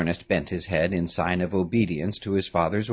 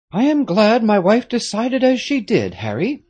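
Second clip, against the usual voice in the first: lightly voiced stern nobleman, higher and louder; a grave father giving orders, a touch of urgency; Marquis, grave father; 8 dB louder than usual. A narrator's reading.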